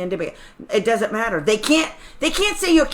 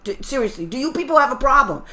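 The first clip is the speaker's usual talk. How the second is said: exasperated parent. Pretend. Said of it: "put it back on them and say".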